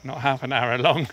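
panting out of breath from climbing; breathless, talking mid-climb. Real, not acted. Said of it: "that's why I'm out of breath".

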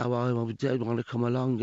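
put-on a mild send-up of actors doing a Brummie accent; mock Brummie accent. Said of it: "when they do the Brummie accent".

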